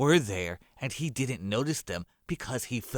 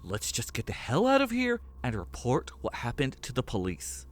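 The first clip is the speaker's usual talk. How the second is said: put-on higher young man, sheepish apology; sorry Rich, higher voiced and flustered; Armando's voice; 4 semitones higher than usual. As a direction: apologize awkwardly in a raised character voice. Narrator voicing Armando.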